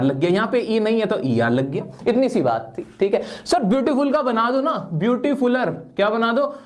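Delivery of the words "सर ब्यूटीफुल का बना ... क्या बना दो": pleading student. Acted. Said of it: "अरे नहीं दोस्तों, गलती मत कर देना".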